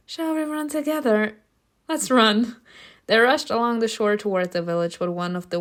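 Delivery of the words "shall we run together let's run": voiced higher, a touch of eagerness; mildly excited. A narrator's reading. Tata invites Simona to run, mildly excited. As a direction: read it as an eager invitation, no real whisper. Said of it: "whispered excitedly".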